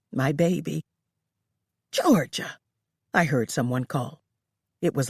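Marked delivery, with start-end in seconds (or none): 1.9-2.6 higher, calling a name across the house. A narrator's reading. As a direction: call out to find her. Lola calling from afar.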